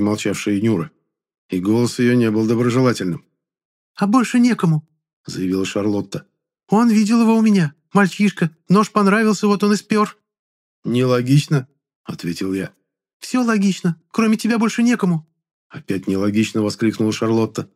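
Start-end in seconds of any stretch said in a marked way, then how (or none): 3.9-15.3 put-on very high, thin girl's voice; shrill girl voice. A narrator's reading. Charlotte's voiced character.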